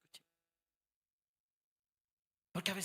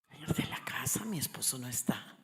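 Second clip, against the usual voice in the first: retold whisper. Retold phone call, hushed.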